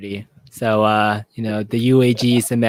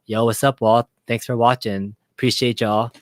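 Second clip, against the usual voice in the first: Mad Dad's Gaming impression; 4 semitones lower than usual. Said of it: "my best Mad Dad's Gaming impersonation".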